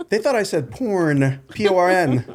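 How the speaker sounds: laughing through the words; high, giggling delivery. Real, not acted. Laughing while telling punchline.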